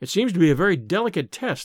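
plain reading voice

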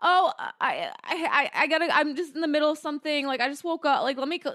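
mock flustered speech, tripping over words. Retelling own reply to an unexpected FaceTime call: imitating own flustered reply. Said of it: "I got so flustered".

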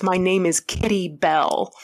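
plain

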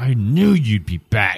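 angry, furious, hate-filled female voice. Running a game for four players, the speaker voices an angry, hateful female voice. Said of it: "a voice that is just angry, pain, hate".

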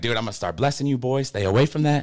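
ordinary talk, nothing marked

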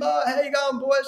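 put-on very high, laughing, joking, friendly jovial voice. Retelling how a bowler greeted the team the night before, imitating a joking, laughing greeting. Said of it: "he's sort of joking and laughing".

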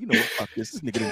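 angry, fed-up, mad-as-hell ranting outburst. Retelling how a friend reacted, imitating Trey being mad. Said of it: "Trey mad as shit. He like".

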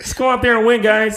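very high, pitched way up, mid-puberty voice. Mocking how a football player talks: imitating Patrick Mahomes' voice. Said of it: "Patrick Mahomes sounds like he's still fucking going through puberty".

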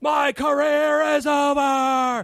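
very high, very slow, overstretched furious wail. Retelling a furious man's reaction to a joke reaching the press, retelling a scream. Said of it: "He is screaming".

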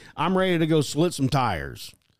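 ordinary talk, nothing marked

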